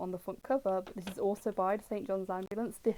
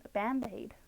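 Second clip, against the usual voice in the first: American accent; 2 semitones higher, slower than usual. Shown as a demonstration. Streamer shows viewers the American word for a plaster, American accent. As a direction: say Band-Aid in a put-on American accent. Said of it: "gonna say an American accent".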